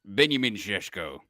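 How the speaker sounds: name in a Slovenian-style accent, "Benjamin Šeško" with rolled Š sounds. Shown as a demonstration. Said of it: "I can't say it without the accent now".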